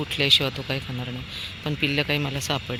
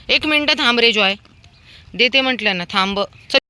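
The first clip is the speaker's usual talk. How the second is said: higher, louder wait command; firm pet talk; 7 semitones higher, 8 dB louder than usual. Real, not acted. Woman tells dog Joy to wait for his share, high firm call. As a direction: hold the dog back firmly.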